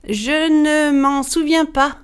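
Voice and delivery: high, slow, evasive wife; frightened denial. A narrator's reading. Wife questioned by Bluebeard about the key, fearful.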